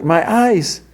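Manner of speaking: retold scream of horror. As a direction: shriek it in sudden agony. Marge's eyes burst, she cries out.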